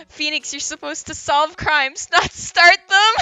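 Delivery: high, loud, on the verge of laughter; amused quoting. Retold or imitated. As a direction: quote it gleefully, building to a laugh. Quoting funny comment, about to burst laughing.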